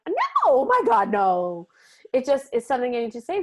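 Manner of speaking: loud, high retold protest; squealed, exaggerated denial; alarmed denial. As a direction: shoot up high and loud in mock horror.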